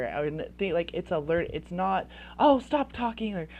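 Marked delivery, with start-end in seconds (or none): 2.4-3.3 higher, louder mock brush-off; dismissive parent. Parent shutting down an upset child, dismissive. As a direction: wave the child off, acted impatience. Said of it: "disregarding and dismissing is like".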